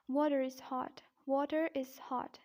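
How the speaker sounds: "water is hot" with the R of water sounded into is; linking R. Shown as a demonstration. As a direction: link "water" to "is" with a clear R. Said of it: "this phrase is then pronounced as".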